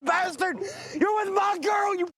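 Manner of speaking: raging shouts at the man in the car; betrayed husband bellowing curses; furious yelling. Real, not acted. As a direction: yell it like you want to drag him out. Husband confronts cheaters in car.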